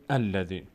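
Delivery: «الذی» begun with a clear "al"; starting afresh. Shown as a demonstration. Teacher showing reading from the beginning, «الذی» with initial "al". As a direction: open «الذی» on "a", as "al-ladhi".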